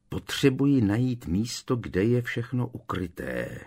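understated inner plea; a touch of imploring; pleading. Acted. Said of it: "žadonil v duchu úpěnlivě Harry".

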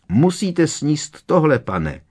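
high squealing elf voice; squealing house-elf. A narrator's reading. Dobby squeals to Harry, offering the gillyweed. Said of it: "zakvičel skřítek".

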